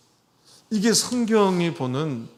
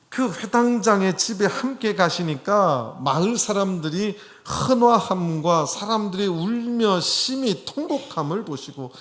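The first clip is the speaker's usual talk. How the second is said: higher-pitched, measured Bible reading; scripture read aloud; 5 semitones higher, 4 dB louder than usual. Acted. Preacher reading of villagers mourning at the leader's house, raised scripture reading. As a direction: read the verse out to the room.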